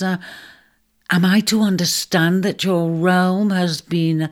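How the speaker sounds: slow, stumbling hesitant question; can barely ask the unthinkable; halting dread. Acted. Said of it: "had difficulty forming the words".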